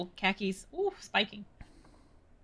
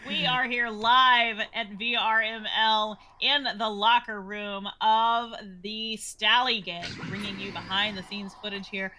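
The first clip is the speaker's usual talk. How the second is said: nature documentary. Pretend. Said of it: "ladies and gentlemen".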